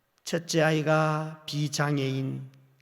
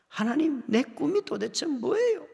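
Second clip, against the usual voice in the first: raised, pleading prayer; crying out to God; 10 semitones higher than usual. Retold or imitated. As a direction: call out the question to God.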